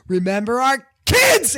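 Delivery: mock villain's cry before the push; mock dramatic yell.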